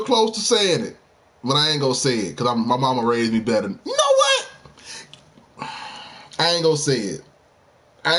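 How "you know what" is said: very high squeaky outburst; hyped. Real, not acted. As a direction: burst out, worked up. Building up to a hot take.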